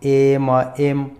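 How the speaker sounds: एम said alone, opening on an "e" vowel; pronunciation demo. Shown as a demonstration. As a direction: model the letter name एम for learners. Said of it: "एम का उच्चारण कैसे करें".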